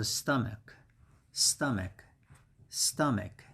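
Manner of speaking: STOMACH joined up as STUM-uk, first syllable stressed; model pronunciation. Shown as a demonstration. Teacher putting the syllables together, spaced model pronunciation. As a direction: repeat STOMACH carefully with a falling end. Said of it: "And the pronunciation is".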